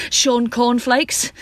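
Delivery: slow, breathless, thrilled delivery; excited panting pun. Retold or imitated. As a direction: gasp the pun out in delight. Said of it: "heaving shoulders, panting".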